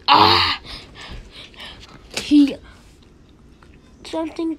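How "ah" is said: loud, short "ah" cry; sudden loud yelp in play; pretend yelp. Player acting out a hit in the game, pretend yelp.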